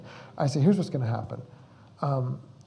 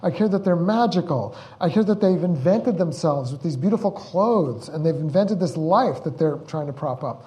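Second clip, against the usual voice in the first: passionate retold protest; 3 semitones higher, 4 dB louder than usual. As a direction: insist with mounting conviction. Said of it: "I said".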